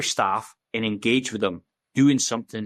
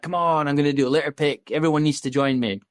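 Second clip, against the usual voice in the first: lightly acted appeal, pitched up; retold eager plea to join in; rallying call; 4 semitones higher than usual. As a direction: drum up volunteers, a touch higher. Retells rallying people on social media.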